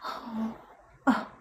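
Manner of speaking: high, fading whiny mock crying; mocking crybaby child. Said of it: "Like a little fucking child".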